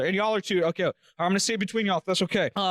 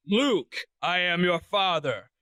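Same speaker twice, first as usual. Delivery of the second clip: movie quote voice; 4 semitones lower, slower than usual. Acted. Movie villain quote in trivia.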